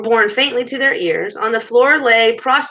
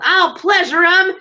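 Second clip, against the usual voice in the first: high, loud, slow yell; drawn-out battle threat; 9 semitones higher, 5 dB louder, slower than usual. A narrator's reading. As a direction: yell it as you charge in. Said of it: "he yelled".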